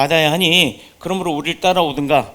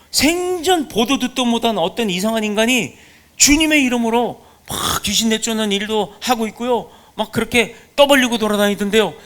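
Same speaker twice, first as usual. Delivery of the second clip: higher, eager tattling disciple voice; 4 semitones higher than usual. Acted. Disciples reporting the stranger to Jesus, higher and indignant. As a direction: run to the teacher and complain, worked up and indignant.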